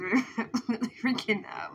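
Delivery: whispered, scared half-laugh; hushed nervous whisper; frightened whisper. Real, not acted. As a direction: whisper it like you're afraid to be heard. Scared while eyes closed.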